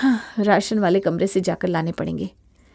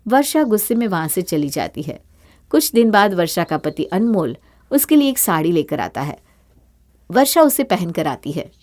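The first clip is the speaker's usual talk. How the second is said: calm, lower narrator voice; story narration; 4 semitones lower than usual. A narrator's reading. Narrator describes what Varsha does, calm narration. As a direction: tell the story evenly.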